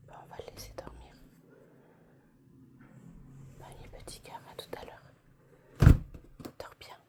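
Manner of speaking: tender hushed whisper; whispering over a crib. Real, not acted. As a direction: whisper goodnight softly. Whispering goodnight to baby.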